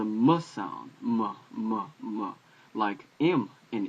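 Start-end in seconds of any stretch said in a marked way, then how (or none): 0.0-2.3 M voiced as a short "muh"; letter sound demo. Shown as a demonstration. Teacher sounding out Mem for learners, letter sound demo. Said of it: "is a M sound".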